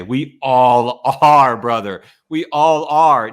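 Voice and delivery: slow, drawn-out we all are; slow reassurance. Real, not acted. Host reassuring his guest, slow and sincere. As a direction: comfort him like a brother, slowly. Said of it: "comforting brother".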